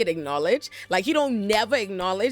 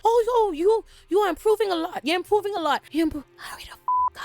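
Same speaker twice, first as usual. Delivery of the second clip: mock sweet coaxing; 11 semitones higher than usual. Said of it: "Larys is like".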